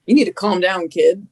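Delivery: a hint of a firm order to calm down. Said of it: "grabs me by the shoulders and goes".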